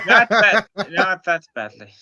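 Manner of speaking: laughing while repeating. Real, not acted. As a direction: laugh through the words.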